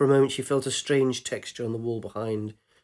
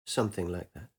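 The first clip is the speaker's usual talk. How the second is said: put-on young man voice; 5 semitones lower, 5 dB quieter than usual. Man's low evasive reply.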